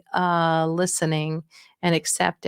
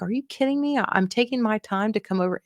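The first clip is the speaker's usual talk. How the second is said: higher-pitched, mildly exasperated protest; retold indignation; 3 semitones higher than usual. Daughter recalls answering her mother's outburst, mildly indignant. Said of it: "Mom started going off on me".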